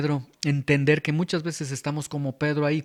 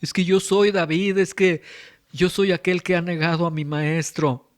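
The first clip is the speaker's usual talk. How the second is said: raised, pleading cry of a sinner; repentant outcry; 3 semitones higher, 4 dB louder than usual. Retold or imitated. Preacher voicing the congregation's repentant cry to God, raised and pleading. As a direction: cry it out as a broken penitent. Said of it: "este clamor de".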